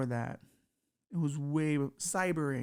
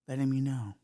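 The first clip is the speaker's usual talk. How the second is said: sultry cyber demo; 4 dB quieter than usual. Shown as a demonstration. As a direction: breathe the last words as an intimate whisper. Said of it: "That's how you do it".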